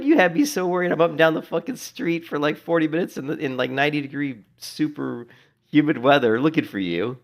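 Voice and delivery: high, loud mock telling-off; exasperated scolding. Streamer telling off the hiding cat, high loud exasperated rant.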